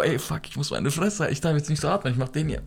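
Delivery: soft hushed self-talk; hushed inner voice. Retold or imitated. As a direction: keep it hushed while hiding. Must stay silent while hiding. (leise flüsternd)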